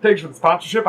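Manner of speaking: hiccuping while talking; hiccups. Real, not acted. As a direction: hiccups breaking the words. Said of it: "I just caught the hiccups".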